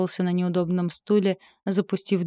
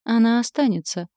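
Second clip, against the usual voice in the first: plain reading voice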